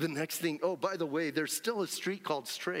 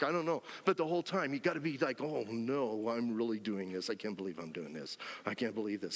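lower, hurried fretting under the breath; mock panicky inner voice; 4 semitones lower than usual. Ananias frets to himself on the way, mock panicked. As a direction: talk yourself into dread on the walk.

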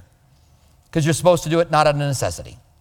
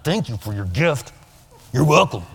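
sarcastic reply; 6 semitones lower than usual. Retold or imitated. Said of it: "And you're like".

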